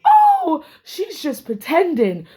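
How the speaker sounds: high, laughing sneer of a brush-off; mocking dismissive quote. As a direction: mimic her scoffing it off with a laugh. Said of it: "all I could hear Valerie saying was".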